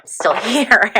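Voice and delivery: a laugh breaks into the words; giggling. Real, not acted. Giggling over whether the senator will still be alive. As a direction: let a giggle slip in. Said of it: "I'm so giggly".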